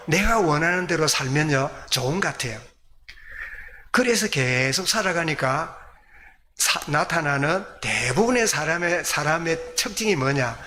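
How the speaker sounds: ordinary delivery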